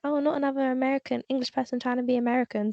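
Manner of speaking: rattled off, quick and dismissive; quick sneer at a wannabe American; fast dismissive quote. Retold or imitated. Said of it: "them being like".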